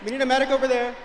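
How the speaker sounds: urgent call for a medic; man down shout. Real, not acted. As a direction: shout for help across the crowd. Crowd member calling for help.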